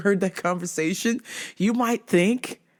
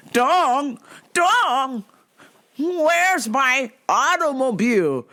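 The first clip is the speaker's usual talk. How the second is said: mock Asian accent. Acting out a film accent bit.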